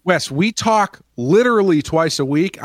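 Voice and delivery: lightly exasperated, leaning hard on the words; mock exasperation. Acted exasperated retort to Wes.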